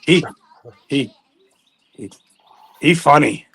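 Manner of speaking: lightly put-on comic broken English; broken-English character voice. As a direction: play the pedalling rickshaw man.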